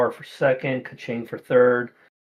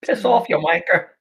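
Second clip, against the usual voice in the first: rude insult; 6 semitones higher, 4 dB louder than usual. Acted. Rude guard shouting at the party.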